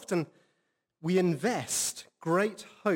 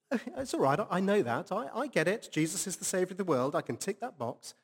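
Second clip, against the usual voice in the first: higher, breezy know-it-all voice, rushing through; lightly voiced self-satisfied listener, quick and higher; mock complacent; 4 semitones higher, faster than usual. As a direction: brush it off like a smug churchgoer who's heard it all. Imagined complacent listener's thought.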